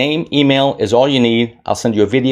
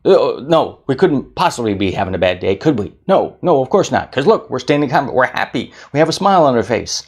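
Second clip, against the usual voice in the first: lightly hammed-up chatty brain voice; brain's voice; 3 semitones higher than usual. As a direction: play the brain, bright and quick. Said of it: "your brain's going".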